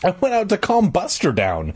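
high-pitched, defensive protest; insisting. A narrator's reading. Joe defending himself to Dad, insisting. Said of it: "I insisted".

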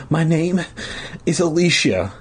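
put-on high, halting little-girl voice; sobbing.

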